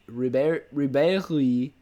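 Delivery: Ribéry said lightly the French way, stress on the end; a slight French accent on the surname Ribéry; Ribéry with a mild French lilt. Real, not acted. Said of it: "I read that in a French accent".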